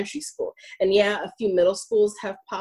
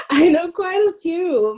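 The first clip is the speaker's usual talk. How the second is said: laughing; 9 semitones higher, 5 dB louder than usual. Real, not acted. Amused reply about long postings.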